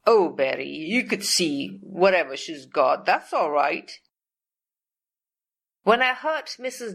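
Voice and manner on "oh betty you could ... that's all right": mock-sweet, sarcastic reassurance. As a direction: fake kindness that means the opposite.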